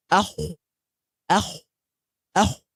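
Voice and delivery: akh with a heavy full-mouth kha. Shown as a demonstration. Teacher shows correct kha to students: heavy akh. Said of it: "What are you supposed to say?".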